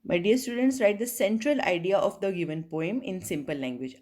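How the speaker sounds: slow, carefully spaced opening; formal class address. Acted. Teacher opening the sounds lesson, slow and formal. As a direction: greet the class and set out the lesson slowly.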